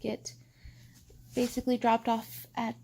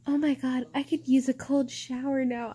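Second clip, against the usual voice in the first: mocking commenter. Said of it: "another fucking comment that says".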